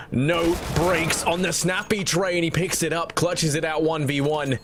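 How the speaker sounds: excited. Real, not acted. Caster hyping a clutch.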